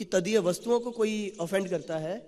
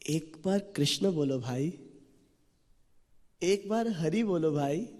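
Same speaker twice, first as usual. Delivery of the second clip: slow, gentle coaxing plea; coaxing the drunk brothers kindly, slowly; lovingly; slower than usual. Retold or imitated. Saint pleads lovingly with drunk brothers, slow and gentle. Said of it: "प्रेम से बोलते हैं".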